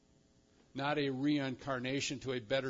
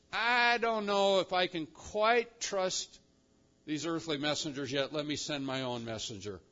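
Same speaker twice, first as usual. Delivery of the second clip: mock hesitation. Preacher voices God doubting earthly messengers, mock hesitation. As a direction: play mildly doubtful, thinking it over.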